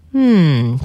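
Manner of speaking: touched sun's hum. Acted. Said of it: "fit le soleil".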